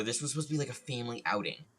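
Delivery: a hint of put-out mom; imitated mother. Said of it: "the mother in the sh".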